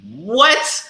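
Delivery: high-pitched incredulous protest; retold shocked disbelief. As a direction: squeal it in mock disbelief, voice way up. Retold shocked reaction to food.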